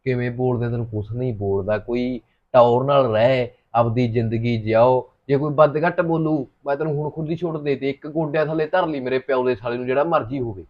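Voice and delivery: calm his wife down gently; soothing reassurance. Acted. Husband calming his upset wife, soft and reassuring.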